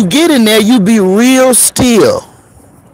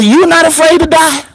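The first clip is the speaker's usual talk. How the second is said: higher, incredulous ask; disbelieving question; 9 semitones higher than usual. Retold or imitated. Comedian asking the funeral director, mock disbelief. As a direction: ask it like you can't believe him. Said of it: "I said".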